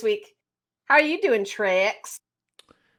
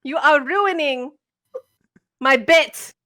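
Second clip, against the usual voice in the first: laughing through the words; cracking up mid-bit; breaking character giggling; 4 semitones higher than usual. Real, not acted. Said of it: "I can't do it with a straight face".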